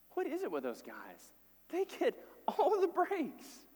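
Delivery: mock jealous grumble, rising into a laugh; sulky complaint, slowed at the end; grumbling brothers. Brothers muttering jealously at the feast, mock grumble.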